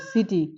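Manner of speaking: "সিটি" begun with a clear s sound. Shown as a demonstration. Teacher modelling city to students. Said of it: "দন্তাস্বয়ের মতো".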